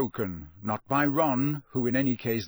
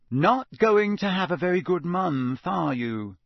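higher, louder sardonic opening that drops away; dryly mocking verdict; sardonic, with a falling tag question; 6 semitones higher, 4 dB louder than usual. A narrator's reading. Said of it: "she said sardonically".

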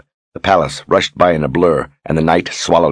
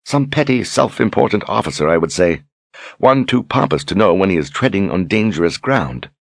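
lightly voiced, higher mocking woman; scornful sister; 4 semitones higher than usual. Sister belittling the pompous general, scornful. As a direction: look down on him and sneer.

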